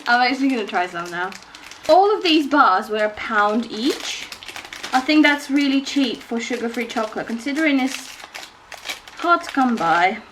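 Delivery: talking through a mouthful; chewing while talking; mouth full. Real, not acted. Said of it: "full mouth".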